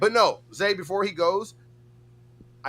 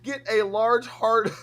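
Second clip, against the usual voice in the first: laughing high quote; 9 semitones higher, slower than usual. Retold or imitated. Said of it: "Bird of Words said".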